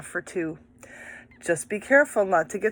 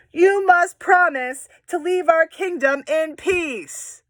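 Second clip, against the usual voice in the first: higher, slow, firm princess voice; commanding princess; 8 semitones higher, 4 dB louder than usual. Acted. Teacher voicing the princess ordering the dragon, slow and firm. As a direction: lay down the terms like a princess.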